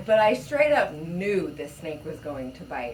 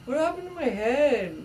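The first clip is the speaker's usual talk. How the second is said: put-on higher dazed boy; confused kid voice; 9 semitones higher, 3 dB louder than usual. Friend joining the joke as confused neighbor, high voice. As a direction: voice the bewildered kid.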